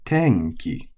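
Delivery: "tenki" high on "ten", low on "ki"; head-high accent. Shown as a demonstration. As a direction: drop the pitch after "ten" in "tenki". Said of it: "which is atamadaka".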